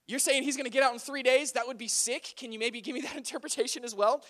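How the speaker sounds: lightly acted eager request; a touch of hopeful excitement, pitched slightly up; really excited. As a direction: imitate someone keen to get the same good news. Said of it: "He was, like, really excited".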